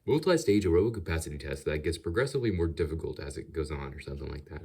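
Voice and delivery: slightly southern announcer voice; southern accent. Shown as a demonstration. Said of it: "I'm just gonna have to do a voice".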